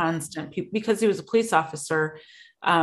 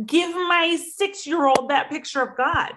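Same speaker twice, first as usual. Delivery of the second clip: imagined angry retort; 3 semitones higher than usual. Retold or imitated. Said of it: "I just wanted to smack them and say".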